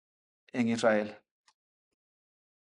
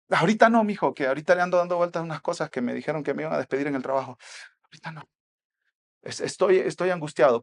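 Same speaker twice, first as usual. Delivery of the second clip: raised "not now", then hurried excuse; brushing someone off; faster than usual.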